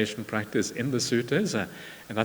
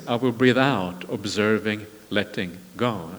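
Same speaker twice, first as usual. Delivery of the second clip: sutta recitation. Acted. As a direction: intone each line like a teaching.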